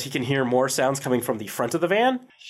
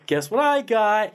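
excited call; 8 semitones higher, slower than usual. Retold or imitated. GM voices player's excited quote.

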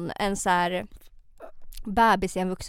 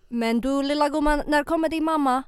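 put-on higher-pitched Finnish-accented driver calling her little dear; Finnish accent impression; 4 semitones higher than usual. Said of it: "jag kan inte imitera mitt eget folk".

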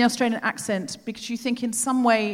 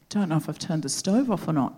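lower-pitched Australian bloke, deadpan; imitated Australian cabbie; Australian accent; 5 semitones lower than usual. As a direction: put on an Australian driver's accent. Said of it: "I'm going to do the accent".

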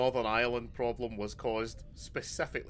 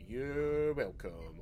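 drawn-out, smug "you're welcome"; mock-gracious smugness; 3 dB quieter, much slower than usual. Scot claiming credit over Brexit, mock-gracious. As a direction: stretch it out slowly, taking the credit.

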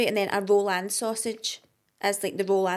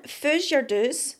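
Doric accent; 4 semitones higher, much slower than usual. Shown as a demonstration. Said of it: "Here's another one".

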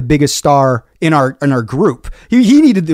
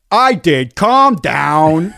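dismissive; 3 semitones higher, much slower than usual. Retold or imitated. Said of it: "made me so furious".

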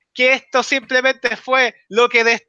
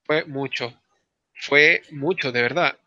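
overwhelmed; 6 semitones lower, 3 dB quieter, slower than usual. Real, not acted. Overwhelmed after the reveal.

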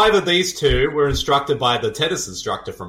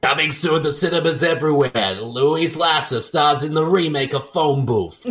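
trailer announcer. Acted.

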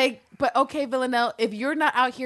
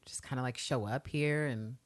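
soft, low, halting admission; mock-tentative murmur full of hedges; Eve's hesitant confession; 4 semitones lower, 9 dB quieter than usual. Voicing a woman admitting she feels she knows her assassin, hesitant and soft. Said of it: "And Eve is like".

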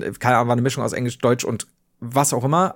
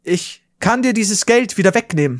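mild retold threat; 5 semitones higher than usual. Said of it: "dann bin ich sauer geworden".

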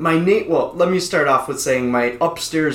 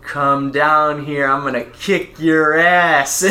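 threat; 3 dB louder, slower than usual. Retold or imitated. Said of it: "my father looks at him and goes".

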